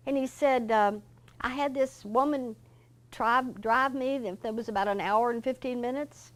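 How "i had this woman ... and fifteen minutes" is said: retold easygoing boss voice, pitched much higher; cheerful Mister George. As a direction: brush off the apology lightly and brightly, as Mister George.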